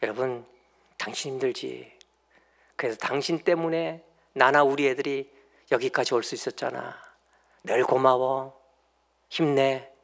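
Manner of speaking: soft, tender thanks; husband softly thanking his wife; gentle encouragement. Shown as a demonstration. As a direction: quietly lift up a tired wife. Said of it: "그게 난리치는 게 아니라".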